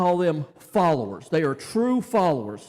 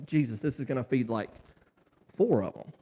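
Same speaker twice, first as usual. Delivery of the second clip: doubtful disciples; 8 semitones lower, 8 dB quieter than usual. Retold or imitated. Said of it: "they're like".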